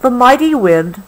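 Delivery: gentle, unhurried storybook read; reading to a child. Acted. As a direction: soothe a child toward sleep with the story. Reading the book slowly.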